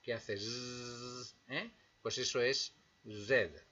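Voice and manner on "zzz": slow, soft zzz like a fly; fly buzz. Shown as a demonstration. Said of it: "imitar el vuelo de una mosca".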